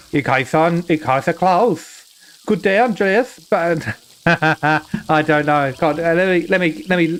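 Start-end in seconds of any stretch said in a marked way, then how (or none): 0.1-3.4 put-on tentative German-accented greeting; attempted German accent. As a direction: feel your way into a German accent.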